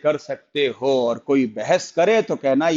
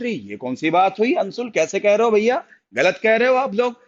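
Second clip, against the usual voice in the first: high, quick protest; indignant objection; 4 semitones higher, faster than usual. Real, not acted. Teacher scolding Anshul for a wrong answer, indignant objection. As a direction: challenge the wrong answer in disbelief.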